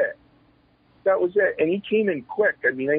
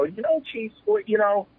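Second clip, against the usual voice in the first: higher-pitched exasperated pleading; retold frustration; 5 semitones higher than usual. Wrestler pleads with his chief for a break, frustrated. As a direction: re-enact a frustrated plea. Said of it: "he'd see my frustration".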